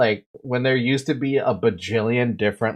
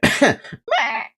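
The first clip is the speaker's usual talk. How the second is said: failed vocal squeak; 11 semitones higher than usual. Shown as a demonstration. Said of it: "I sound like a dead cow".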